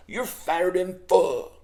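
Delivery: slow southern drawl; southern accent. Retold or imitated. The voice heard all night long, slow southern accent. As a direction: draw the words out in an imitated southern accent. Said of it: "it has a southern accent".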